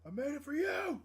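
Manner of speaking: sweet, high gushing offer, half-joking; mock heartfelt gift. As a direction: hand it over like a lovesick suitor, hammed up. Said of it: "Be like".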